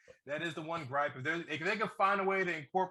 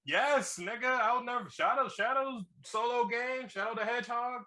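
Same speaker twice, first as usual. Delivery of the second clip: higher-pitched, emphatic arguing; excited insistence; 7 semitones higher, slower than usual. Real, not acted. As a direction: insist like a fan proving a point. Insists the game was rated M.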